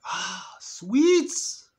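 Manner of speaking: gleeful about the cake; lit-up voice over the sweets; delighted grab. Retold or imitated. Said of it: "I was like".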